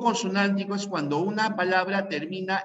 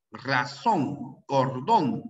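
Razón and cordón, each stressed on its final syllable; stress on last syllable; 4 semitones lower, much slower than usual. Shown as a demonstration. Teacher giving examples ending in N, final syllable stressed in Razón and cordón. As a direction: lean on the ZÓN of Razón and the DÓN of cordón. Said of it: "llevan la fuerza de voz en la última".

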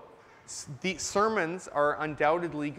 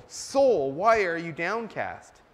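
louder, pressing question to his own soul; rebuking the soul; 6 dB louder, slower than usual. Retold or imitated. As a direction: scold your own soul. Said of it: "The psalmist is saying to his soul".

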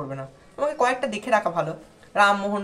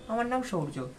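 stuck repeating; 3 semitones higher than usual. Shown as a demonstration. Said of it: "তারপরে আটকে যাবে".

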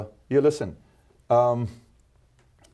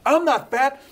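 high, loud, indignant denial; defensive shout; 5 dB louder, slower than usual. Retold or imitated. Host plays a candidate who overreacts to an insult, loud and high. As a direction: protest hard, like someone stung by the remark. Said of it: "Kinda like this".

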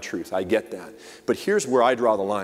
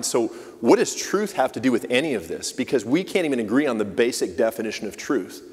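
exasperated, slightly raised Pilate; frustrated Pilate. Retold or imitated. Imagined Pilate frustrated with the Jews, mildly exasperated. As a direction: vent like a fed-up governor. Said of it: "He's frustrated. He's like".

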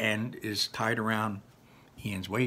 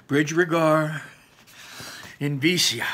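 spell incantation; 5 semitones higher, 5 dB louder than usual. Acted. Casting spell again.

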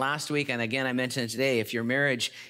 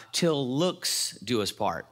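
mocking vow; slower than usual. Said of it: "marriage vows become more like".

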